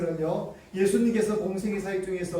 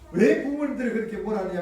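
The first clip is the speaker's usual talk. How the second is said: mild acted reproach; angry Jesus; 2 semitones higher, faster than usual. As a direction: question them with understated indignation. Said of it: "오히려 예수님께서 화를 내셨습니다". (살짝 화내며 나무라듯)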